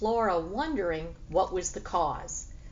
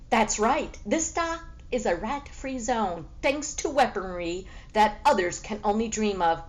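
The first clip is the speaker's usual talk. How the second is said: boastful cat; 2 semitones higher than usual. Acted.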